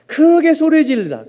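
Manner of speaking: high, loud proclamation; loud emphasis. Shown as a demonstration. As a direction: hammer out the definition loudly. Acting out the word's meaning.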